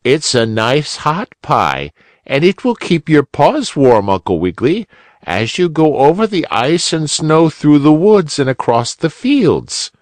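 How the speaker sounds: squirrel mother. A narrator's reading. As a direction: warn him kindly about the snow.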